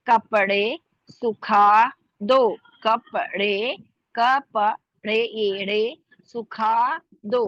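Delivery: सुखा with an aspirated ख, drawn out slowly. Shown as a demonstration. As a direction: stretch सुखा दो with a puff on ख. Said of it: "ख देखिए". (धीरे, भारी ख के साथ सुखा दो)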